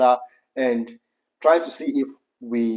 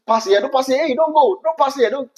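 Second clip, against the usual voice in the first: high, mock nagging back-seat voice; imitating wife; 10 semitones higher than usual. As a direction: play the nervous wife telling him not to overtake.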